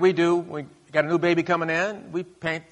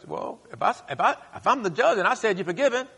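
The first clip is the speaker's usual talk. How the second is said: voicing God; 8 semitones higher than usual. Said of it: "God says".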